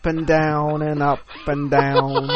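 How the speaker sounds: slow, drawn-out narrator impression; Morgan Freeman. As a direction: narrate it very slowly, stretching the words. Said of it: "I don't think you can do a good Morgan Freeman".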